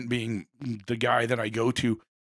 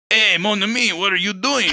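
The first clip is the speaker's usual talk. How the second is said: Pissarro greeting Monet; 7 semitones higher, 7 dB louder than usual. Retold or imitated. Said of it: "was like".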